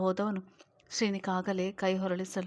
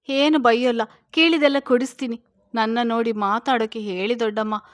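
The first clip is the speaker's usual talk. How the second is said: louder, rising, tearful begging; choked sobbing plea; 7 dB louder, faster than usual. Acted. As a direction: beg the aunt through tears, voice breaking. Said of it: "ಧ್ವನಿ ಪೂರ್ತಿ ಕಟ್ಟಿ ಹೋಗಿತ್ತು". (ಕಟ್ಟಿದ ಧ್ವನಿಯಲ್ಲಿ ಅಳುತ್ತಾ ಬೇಡಿಕೆ)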